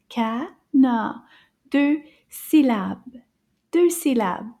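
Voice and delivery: CANARD in two firm, separated beats; counted syllables. Shown as a demonstration. Teacher showing two syllables in "canard", beat by beat. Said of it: "I hear two syllables".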